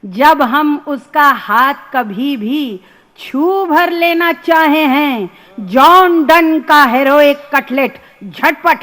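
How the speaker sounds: rustic student's lament in rhythmic verse; comic poem recital. Acted. Student confessing his English troubles to madam, comic poem recital. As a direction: lilt through the dialect lines, lifting the repeats.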